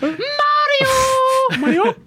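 very high, loud cartoon cry; Mario shout. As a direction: yell the name like the plumber.

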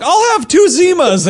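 meek nerd ordering a lame drink; nerdy Otacon order. Retold or imitated. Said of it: "He'd be like".

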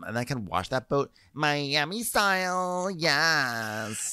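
high, bubbly mock enthusiasm; imitating the new deckhand's upbeat intro; mock eager newbie. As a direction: gush like an eager rookie.

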